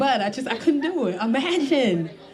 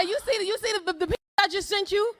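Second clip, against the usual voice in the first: higher, laughing through the words; laughing taunt; 5 semitones higher, faster than usual. Retold or imitated. Comic taunting a man about the picture she sent, laughing. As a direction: tease him while cracking up. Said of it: "I said".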